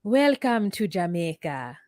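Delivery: slow Jamaican accent demo. Shown as a demonstration. Showing co-host the phrase, slow Jamaican accent. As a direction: stretch it out with a Jamaican lilt. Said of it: "Can you say, like".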